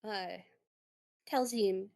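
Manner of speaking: pleased doctor, pitch lifting on the praise; lightly acted, delighted thanks; smiling thanks. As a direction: thank them with an audible smile. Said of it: "smiles at her and goes".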